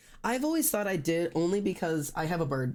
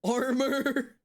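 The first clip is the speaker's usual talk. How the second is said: surprised guess; 9 semitones higher than usual. Real, not acted. Guessing beetle clothes.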